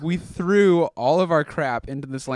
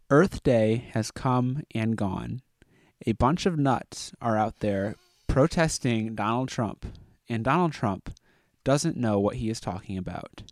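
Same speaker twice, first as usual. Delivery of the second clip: telegram reading. Acted. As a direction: read it out like a telegram, punctuation and all. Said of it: "you read it like it's a telegram".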